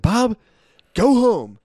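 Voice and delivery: high-pitched, exasperated dismissal; mock angry. Cousin fires his brother for mocking him, mock angry. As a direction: imitate a fed-up boss sending someone off. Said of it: "ended up getting so fucking mad".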